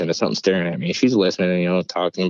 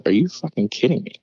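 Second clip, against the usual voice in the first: higher-pitched disbelief; retold incredulity; 5 semitones higher than usual. Storyteller reacting to possession claim, high and incredulous. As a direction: jump up in pitch, can't believe it.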